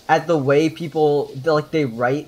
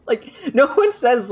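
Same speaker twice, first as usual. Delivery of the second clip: ordinary delivery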